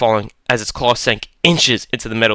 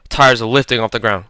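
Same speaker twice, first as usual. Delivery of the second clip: plain reading voice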